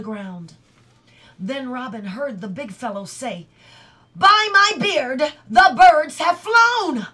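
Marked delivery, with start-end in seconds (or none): 4.2-7.1 high, very loud bellow; full-voiced cry of alarm; outraged shout. A narrator's reading. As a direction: roar it out as the cheated big thief. Narrator voices the thief's outcry.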